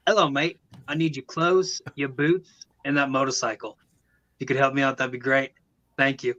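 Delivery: put-on a light Australian accent on an Arnold line; mate-friendly Australian twist, lightly done. Host jokes about Arnold sounding Australian, light Australian accent. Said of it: "like, an Australian accent".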